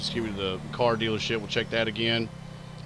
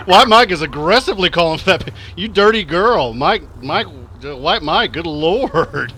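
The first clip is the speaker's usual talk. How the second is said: laughing; 5 semitones higher, 8 dB louder than usual. Real, not acted. Laughing at chat message.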